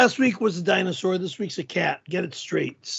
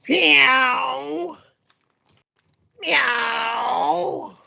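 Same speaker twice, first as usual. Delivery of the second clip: drawn-out cat meow, a bit higher; angry kitty meow; 3 semitones higher than usual. Pretend. Performing the viewer's paid request, angry kitty meowing. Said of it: "meow like an angry kitty".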